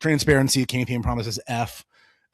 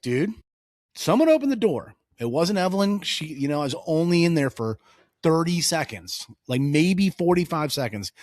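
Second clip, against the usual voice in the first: exasperated dad; 3 semitones higher than usual. Retold or imitated. Dad insists to his son that someone opened the door.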